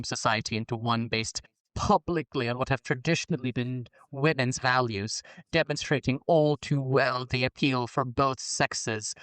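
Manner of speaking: a hint of perfume-ad allure; sultry voice. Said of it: "I'm doing the sultry voice for heterosexuality".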